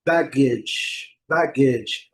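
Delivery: "baggage" stressed on BAG, ending in a short -idge; careful teacher's "baggage", first syllable strong; model pronunciation. Shown as a demonstration. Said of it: "Qual que é a pronúncia?".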